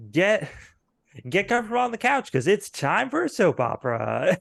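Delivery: high, fast, loud soap opera intro; excited announcer. Acted. Game master to players, excited TV host intro. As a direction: hype up the show start like a TV host.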